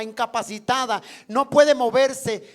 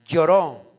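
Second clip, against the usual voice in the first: "Lloró" dropped low and loud as a falling answer; emphatic lloró; 6 semitones lower, 4 dB louder than usual. Acted. Preacher answering his own question to the congregation: a low, loud "Lloró".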